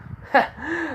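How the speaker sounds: short high scoffing laugh; amused scoff; mocking laugh. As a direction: laugh it off dismissively. Character scoffs at the robot.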